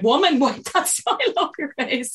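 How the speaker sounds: high, laughing mock command; mock stern officer. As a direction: play a strict instructor half-joking. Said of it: "I was like".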